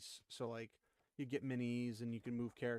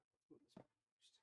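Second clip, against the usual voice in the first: whispering; 23 dB quieter than usual. Real, not acted. Muttering to himself while working.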